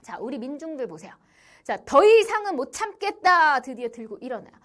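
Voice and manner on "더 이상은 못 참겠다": loud, high acted cry of revolt; imitated angry exclamation; fed-up outburst. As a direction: act out a crowd at breaking point. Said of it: "드디어 민중들이 폭발합니다".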